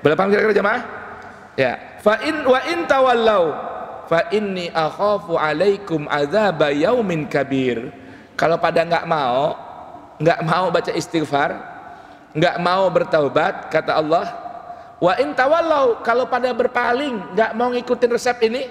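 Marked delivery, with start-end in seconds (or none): 2.0-7.9 verse recitation. Acted. Preacher warning the congregation with a raised Quranic verse. 15.0-18.7 emphatic warning. Acted. Preacher stressing God's warning.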